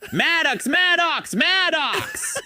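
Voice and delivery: calling out in a whisper shout; whisper yelling. Retold or imitated. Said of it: "he started doing that whisper shout thing".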